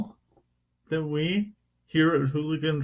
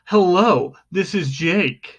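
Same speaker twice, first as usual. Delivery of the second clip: slow, punched newsreader greeting; news reporter. Acted. Host imagining himself recording the news, newsreader voice. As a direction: put on a mock anchor voice, drawing out the name. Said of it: "recording the news, and I'm like".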